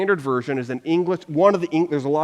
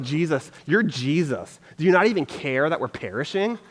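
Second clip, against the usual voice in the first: a mildly snide, passive aggressive jab; understated passive aggressive complaint to Jesus. Retold or imitated. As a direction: needle him with a touch of sarcasm. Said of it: "like, passive aggressive".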